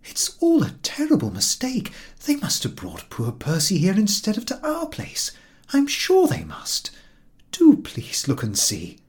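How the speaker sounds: high, hushed, urgent plea; anxious pleading. A narrator's reading. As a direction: beg her to go and look. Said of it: "pleaded Missus X".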